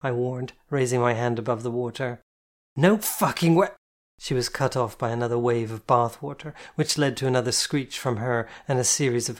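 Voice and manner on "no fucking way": incredulous shout. Acted. Playful disbelief shout.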